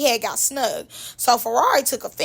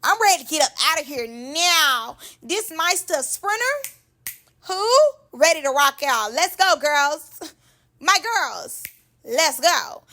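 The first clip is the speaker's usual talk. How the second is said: Ferrari; 4 semitones higher than usual. Retold or imitated. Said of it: "she ready to go. She like".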